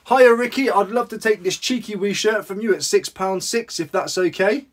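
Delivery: lilting, amateur attempt at a Scottish accent; bad Scottish accent. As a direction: read it in a badly faked Scottish accent. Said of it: "That was a terrible accent".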